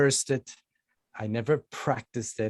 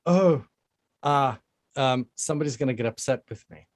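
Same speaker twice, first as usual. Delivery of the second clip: mock worry; 2 semitones higher, 3 dB louder than usual. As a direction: act out mildly fretting with halting fillers. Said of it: "I would have been".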